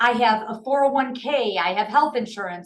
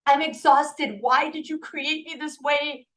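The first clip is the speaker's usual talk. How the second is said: retold crying; 4 semitones higher, slower than usual. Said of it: "I started to freaking cry".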